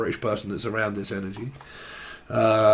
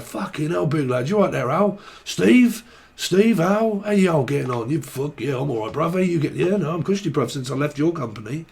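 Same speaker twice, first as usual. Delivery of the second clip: pub banter voices; 4 semitones higher than usual. Retold or imitated.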